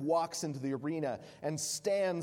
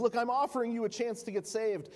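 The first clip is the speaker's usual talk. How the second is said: higher and louder, pressing hard; urgent offer; 9 semitones higher, 4 dB louder than usual. Acted. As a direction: push the offer insistently. Proconsul pressing his offer.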